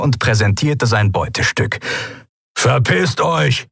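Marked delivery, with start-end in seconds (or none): 2.6-3.7 slow, growled threat. Acted. Keru threatens the pirates with a gun, growled threat. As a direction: rumble it as a warning. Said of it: "brummte er".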